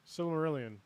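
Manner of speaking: "Silmarillion" sounded out as sil-muh-RIL-ee-un; pronunciation demo. Shown as a demonstration. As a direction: repeat "Silmarillion" after the reference, stress on RIL. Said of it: "That's how they say it".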